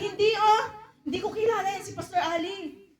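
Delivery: mock-guilty denial to impress a crush; laughing denial. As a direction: brush it off, laughing. Believer denies faith to a crush.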